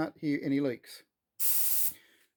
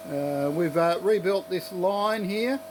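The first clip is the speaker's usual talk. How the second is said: yelling over noise; 3 semitones higher than usual. Real, not acted. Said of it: "I'm gonna yell over the".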